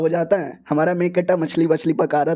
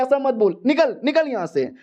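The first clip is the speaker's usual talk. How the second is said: put-on higher, annoyed girl telling him off; angry girl; 6 semitones higher than usual. The girl orders the hero out, higher and irritated. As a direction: shoo him away, voice pitched up.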